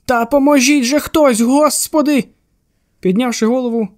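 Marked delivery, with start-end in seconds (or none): 0.0-2.2 panicked shout from above; desperate cry for help. A narrator's reading. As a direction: call down the stairs in panic. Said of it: "почувся крик".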